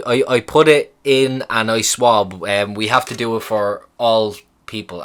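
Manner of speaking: slow, emphatic imitation of limited English; halting bad English. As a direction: imitate a nurse spelling it out slowly. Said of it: "this is where the bad English really kind of".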